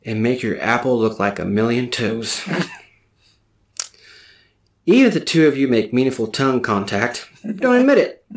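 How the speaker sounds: over-the-top advice column read; mock magazine advice read. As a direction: read it like a teen magazine tip.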